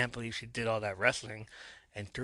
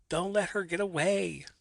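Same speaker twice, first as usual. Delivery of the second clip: breathy, higher hushed urgency; urgent whisper; 8 semitones higher than usual. A narrator's reading. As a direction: hiss the warning. Urgent call during the kidnapping.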